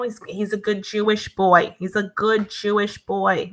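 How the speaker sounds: lightly voiced Jewish mother accent; a hint of Jewish-mom pride; stereotypical Jewish mom. Jewish mom vouches for a boy, light Jewish accent. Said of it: "the Jewish moms will be like".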